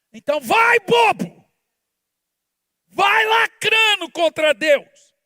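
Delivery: high, loud taunting yell; mocking shout. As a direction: taunt them at full voice. Preacher mocking rebel. (zombando aos gritos)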